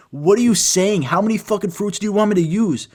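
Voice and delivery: exasperated retort. Retold or imitated. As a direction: argue back in mock disbelief. Acted quarrel with nitpicking classmate.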